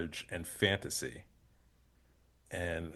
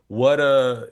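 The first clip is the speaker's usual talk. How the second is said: loud, higher burst of awe, cut off; amazed outburst; 6 semitones higher, 11 dB louder than usual. Retold or imitated. Host recalling his reaction to Patinkin's clip, awed exclamation. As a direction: blurt it out, stunned by the clip.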